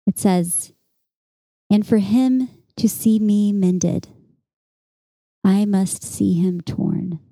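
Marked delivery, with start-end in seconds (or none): 1.7-7.2 slow, measured verse reading; poem reading. Acted. Poet reads an epigraph to podcast listeners, slow poem reading. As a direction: read the line with deliberate pauses.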